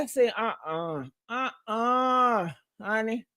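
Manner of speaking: a hint of sassy warning; sassy retort. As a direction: put him in his place coolly.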